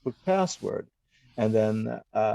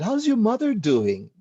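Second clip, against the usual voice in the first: mock sweet question; 10 semitones higher than usual. Retold chat with scammer.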